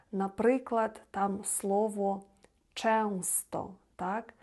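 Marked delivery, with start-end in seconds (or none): 2.7-3.7 często with every letter sounded; Polish często. Shown as a demonstration. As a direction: say często clearly, ę and all. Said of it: "Кожна буква вимовляється".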